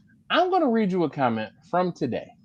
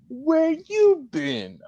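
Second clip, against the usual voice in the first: playful high greeting; 14 semitones higher, much slower than usual. Acted.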